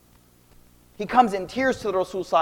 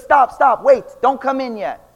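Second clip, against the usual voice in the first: raised, urgent retold warning; louder voice holding someone off; mock calling out; 2 semitones higher, 5 dB louder than usual. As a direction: imitate calling through a closed door. Bathing mother calls through door.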